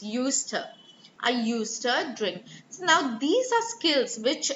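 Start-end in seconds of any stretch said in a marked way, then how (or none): 0.0-2.4 "used to" joined as "yoosta", the d dropped; elision. Shown as a demonstration. Teacher shows how it sounds, "used to" merged as "yoosta". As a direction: run "used to" together with a weak "tuh". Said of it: "it would sound something like this".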